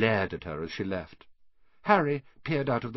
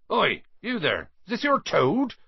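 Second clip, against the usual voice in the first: raised, high-pitched hail; hailing someone; 11 semitones higher, 4 dB louder than usual. Acted. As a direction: call out to catch a boy's attention. Hagrid hails a boy.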